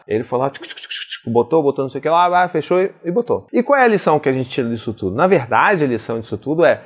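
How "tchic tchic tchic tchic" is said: quick, soft unvoiced "tchic" noises; hushed rhythmic sound effect; imitated busy noises. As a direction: mimic quick bustling with whispered clicks. Imitates quick actions of child.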